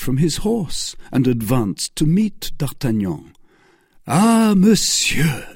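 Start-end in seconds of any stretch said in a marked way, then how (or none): 4.1-5.5 much higher and louder, slowly drawn out; fierce cry. A narrator's reading. D'Artagnan finally facing the stranger, fierce drawn-out cry. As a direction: let the long hunt burst out in one cry. D'Artagnan confronts his old enemy.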